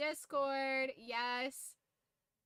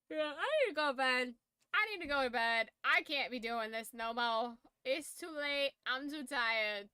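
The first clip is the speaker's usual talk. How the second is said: put-on loud Brooklyn-y accent, worn out; unplaceable New York-ish accent; 6 dB louder than usual. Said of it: "I don't know what that accent is".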